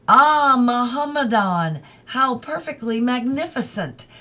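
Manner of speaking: high, loud, delighted exclamation; exclaimed. Acted. Adela to Mrs Moore, thrilled exclamation. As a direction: gush with delight over the news. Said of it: "exclaimed Missus Quested".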